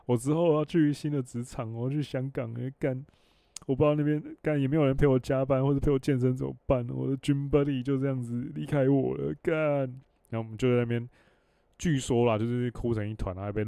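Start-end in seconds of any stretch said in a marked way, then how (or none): 0.0-9.5 retold drunken crying. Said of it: "然后我在哭说".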